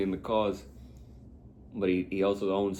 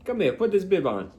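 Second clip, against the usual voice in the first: high-pitched mock character voice; Larry David; 9 semitones higher, 4 dB louder than usual. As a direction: call someone over in a high comic voice. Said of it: "he still sounds like Larry David".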